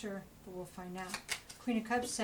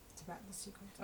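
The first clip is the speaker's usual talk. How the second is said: "It's about the secrets." dropped much softer, almost breathed; hushed repeat; 15 dB quieter, faster than usual. Shown as a demonstration. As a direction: lean in and say it softly like a secret.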